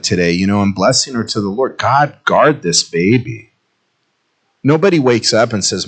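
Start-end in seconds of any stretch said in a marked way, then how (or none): 1.8-3.5 prayerful. Real, not acted. Pastor praying over baby Elisaria, slow and tender.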